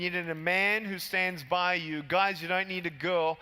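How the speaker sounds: usual speaking voice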